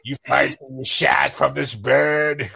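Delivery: put-on slow, drawn-out Cockney accent. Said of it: "your Mary Poppins Cockney accent".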